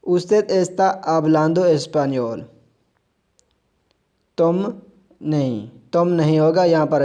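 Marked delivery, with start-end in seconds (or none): 0.1-2.4 very slow, careful reading for learners; slow model sentence. Shown as a demonstration. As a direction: lay each word down slowly. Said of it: "आगे चलते हैं".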